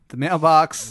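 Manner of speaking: laughing through the word, slowed down; giggling at his own slip. Real, not acted. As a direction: crack up while saying it. Narrator cracking up mid-description.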